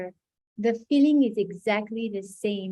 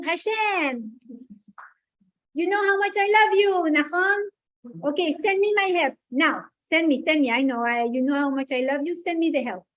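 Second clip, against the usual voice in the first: put-on Maurice Benguigui accent; 3 semitones higher than usual. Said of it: "the accent of Maurice Benguigui".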